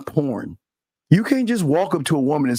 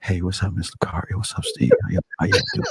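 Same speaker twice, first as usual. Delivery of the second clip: whispered, breathy, seductive sweet-talking bedroom voice; 8 semitones lower, 4 dB quieter than usual. Teasing Calvin about his greeting, imitating Calvin's bedroom voice. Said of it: "Because you like you like".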